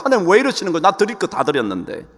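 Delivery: mild indignant protest to God; performed aggrieved outburst; acted rising anger. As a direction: complain as if unfairly treated, building in force. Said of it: "분노가 일어나는 거야".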